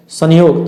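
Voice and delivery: संयोग said as "san-yog", with N before the Y; anusvara as N. Shown as a demonstration. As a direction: sound the dot in संयोग as an N. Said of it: "कहीं इसका उच्चारण जो है न होता है".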